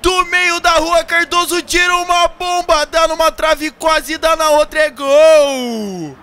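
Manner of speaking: long high goal scream; explosive goal commentary. Acted. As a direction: yell the goal like a narrator. Celebrating goal from midfield.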